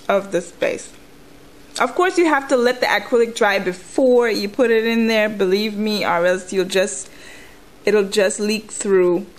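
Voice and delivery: ordinary delivery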